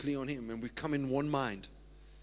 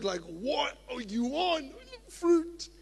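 playful mock exchange; 11 semitones higher, slower than usual. Acts someone asking, answering.

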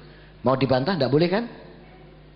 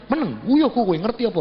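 angry father; 5 semitones higher than usual. Retold or imitated. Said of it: "kalau sudah marah itu".

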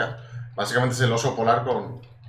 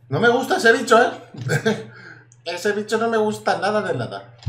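high, loud "no me gusta ese bicho"; loud squeamish complaint; disgusted outcry; 7 semitones higher, 6 dB louder than usual. Real, not acted. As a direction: yelp at the creepy creature. Disgusted by the creature.

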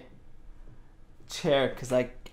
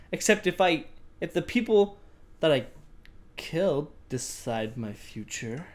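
eerie diary narration; dramatic diary reading. Acted. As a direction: read the diary like a creepy tale. Reads diary entry aloud.

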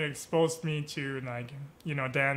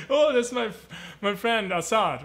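higher, louder blurt on spotting a friend; excited recognition; 5 semitones higher, 3 dB louder than usual. Retold or imitated. Dancer spots his friend outside the party, excited recognition. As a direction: break into happy recognition.

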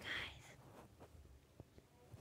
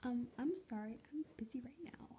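bad impression; 7 dB quieter, faster than usual. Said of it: "Hashtag bad impression".

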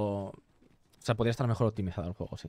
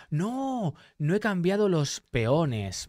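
dismayed; 6 semitones higher, much slower than usual. Real, not acted. Realises mistake mid-game.

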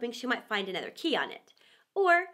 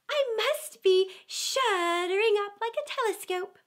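put-on higher, louder childlike amazement; excited Alice; 7 semitones higher, 4 dB louder than usual. A narrator's reading. Alice noticing she is shrinking, higher and louder. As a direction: exclaim it in delight. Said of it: "said Alice".

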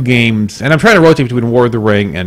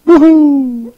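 high-pitched drawn-out woohoo; playful cheer; 12 semitones higher, 3 dB louder than usual. Pretend. Podcaster cheering the group's shared recommendation, playful cheer. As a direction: let out a high, playful whoop.

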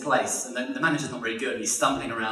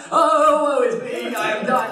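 high, loud, wailing stage agony; hammy death scene; 9 semitones higher, 7 dB louder, slower than usual. Acted. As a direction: overact your dying lament for an audience. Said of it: "starts doing a death scene".

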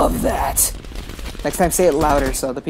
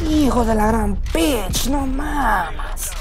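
shouted Spanish curse; 7 semitones higher, much slower than usual. Real, not acted. Cursing at losing dirt bike.

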